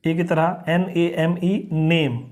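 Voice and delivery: नेम with the ए sounding as ए; teacher slowly sounding out नेम; spelling then saying name. Shown as a demonstration. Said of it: "जैसे ए".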